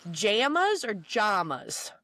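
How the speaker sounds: "Jamas or jamas" first with a flat a, then with a broad ah; pronunciation contrast. Shown as a demonstration. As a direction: slowly contrast "Jamas" as jam-as then jahm-as. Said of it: "What's the full word?".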